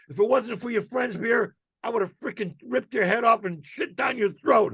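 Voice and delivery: angry threat. Retold or imitated. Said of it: "screaming at him".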